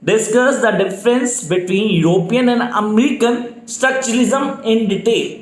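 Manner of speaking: very slow, each word spelled out for note-taking; slow dictation. Shown as a demonstration. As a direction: dictate it slowly so students can write. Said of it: "speed definitely slow है मेरी". (धीमी गति से dictation)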